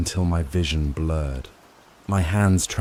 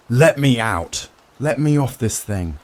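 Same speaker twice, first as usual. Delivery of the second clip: raised, higher shouted plea; panicked shout; 5 semitones higher, 4 dB louder than usual. A narrator's reading. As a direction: call out to be let off. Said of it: "I ran up the stairs shouting".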